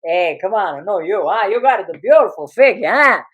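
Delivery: flirting father. Retold or imitated. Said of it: "He goes".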